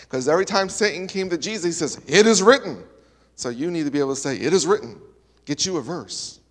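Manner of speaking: a hint of a Southern pastor's accent, retold. Pastor quoted warning about Satan, light Southern accent. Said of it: "had a southern accent".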